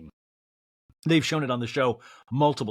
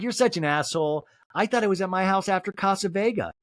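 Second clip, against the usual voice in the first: mock Chris; 5 semitones higher than usual. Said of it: "It's like".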